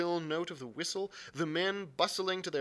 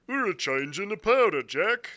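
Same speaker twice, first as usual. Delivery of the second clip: rough sailor voice; 5 semitones higher, 8 dB louder than usual. Acted. A sailor answers the cook.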